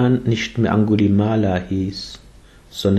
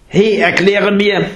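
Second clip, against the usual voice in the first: high, slow call across the distance; 10 semitones higher than usual. Acted. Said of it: "rief Angulimala". (hoher, langsamer Ruf)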